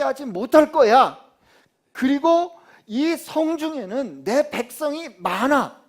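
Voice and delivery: loud, slow, emphatic preaching; full-force preaching. Acted. Pastor proclaiming God's promise to the congregation, loud and slow. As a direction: proclaim it slowly and loudly.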